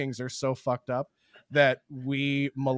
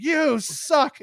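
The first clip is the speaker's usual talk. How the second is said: mock insult; 10 semitones higher, 4 dB louder than usual. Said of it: "they're just like".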